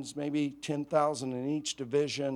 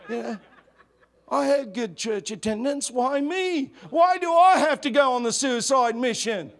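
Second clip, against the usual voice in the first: higher, louder protesting complaint; whiny soldier; 4 semitones higher, 5 dB louder than usual. Retold or imitated. Soldier complaining to a comrade about the suicide mission, whining. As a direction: whine like a soldier sure he's doomed.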